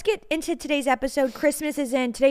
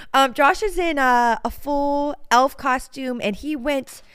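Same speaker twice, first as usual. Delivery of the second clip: laughing; 2 semitones higher, 5 dB louder, slower than usual. Real, not acted. Laughing while describing costume.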